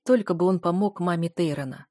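plain reading voice

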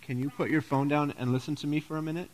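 soft, polite request; mild, courteous child's plea; really nice voice. Shown as a demonstration. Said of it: "in a really nice voice".

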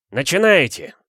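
high-pitched shout to begin; shouted command. A narrator's reading. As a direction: call the start of a duel. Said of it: "крикнул Мамчур". (командный выкрик)

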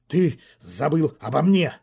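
hoarse shout. Acted. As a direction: call out hoarsely from the doorway. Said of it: "раздался от двери хриплый голос".

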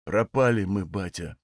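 low, quiet, defeated; despairing. A narrator's reading. Son to his father, hushed hopeless confession. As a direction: let the words sink, hopeless and hushed.

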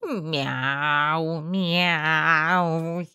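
squeaky meow. A narrator's reading. Rat squeaks.

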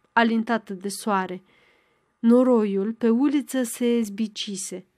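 usual speaking voice

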